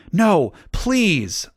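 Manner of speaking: high-pitched plea; begging. A narrator's reading. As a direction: plead with rising urgency on each word. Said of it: "I begged".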